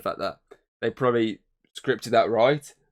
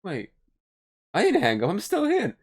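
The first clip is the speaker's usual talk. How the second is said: higher, louder caller pleading; mock caller protest; 9 semitones higher, 4 dB louder than usual.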